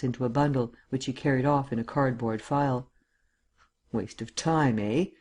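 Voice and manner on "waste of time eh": grinning. Acted. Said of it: "he grinned".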